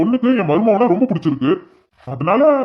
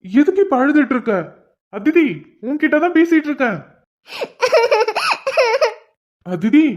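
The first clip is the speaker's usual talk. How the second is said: put-on urgent, raised pleading to a crying girl; panicked hushed urging in front of a crowd; anxious pleading; 6 semitones higher than usual. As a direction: beg her to go away, flustered. Pleading with bride who ran crying.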